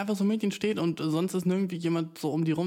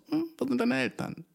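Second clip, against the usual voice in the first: higher-pitched puzzled question, hammed up; besorgte Nachfrage; 10 semitones higher than usual. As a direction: ask it like a baffled passer-by. Mock reaction to lone child. (verwundert nachgefragt, gespielt)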